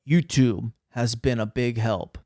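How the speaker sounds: mock-grave reading of the line; serious voice. Shown as a demonstration. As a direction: deliver it as a solemn recommendation. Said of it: "in my serious voice".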